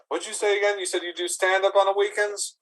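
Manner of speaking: high, altered goblin voice. Acted. Goblin asking the bouncer about stand-up, high voice. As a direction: pitch it way up.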